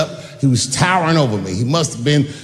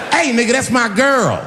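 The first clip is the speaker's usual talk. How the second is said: higher, laughing mock tough-guy shout; 7 semitones higher than usual. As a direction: puff up and shout it like a bouncer. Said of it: "This lesbian fellow stepped between us".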